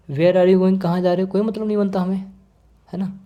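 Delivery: brushing the question off; indifferent. Shown as a demonstration. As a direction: toss out the question as if it doesn't matter. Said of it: "तभी तो इस तरीके से बोल रहा हूँ". (बेपरवाह अंदाज़ में)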